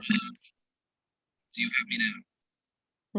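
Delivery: garbled, whispery dropout; choppy bad connection; underwater. Real, not acted. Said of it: "you sound like you're underwater".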